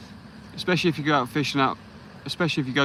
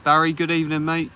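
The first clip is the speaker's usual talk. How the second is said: higher, louder welcome; cheery greeting; 5 semitones higher, 5 dB louder than usual. Real, not acted. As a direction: call out the name to welcome him. Greeting a viewer on live stream.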